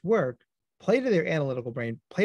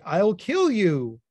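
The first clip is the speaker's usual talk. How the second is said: mock kid threat; 4 semitones higher, 5 dB louder, much slower than usual. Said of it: "They might say".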